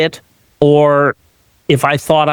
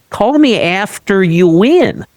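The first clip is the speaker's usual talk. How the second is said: breezy brush-off; 7 semitones higher, slower than usual. Retold or imitated. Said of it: "I'm gonna say".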